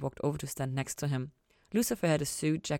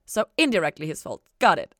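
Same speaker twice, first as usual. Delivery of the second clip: dubiously; 9 dB louder than usual. A narrator's reading. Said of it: "Ella said dubiously".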